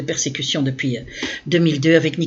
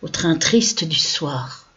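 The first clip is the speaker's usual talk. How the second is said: slow, measured verse with pauses between lines; poem recitation; slower than usual. Acted. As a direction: recite your own poem line by line, drawing out each ending. Recites her poem from memory.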